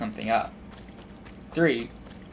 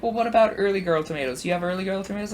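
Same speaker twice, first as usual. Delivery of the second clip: pitched-up old lady imitation; sweet old lady; 8 semitones higher, 4 dB louder, faster than usual. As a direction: ask hopefully in a high little old lady voice. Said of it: "this sweet old lady".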